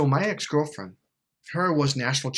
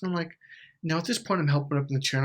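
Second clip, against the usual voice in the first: ordinary delivery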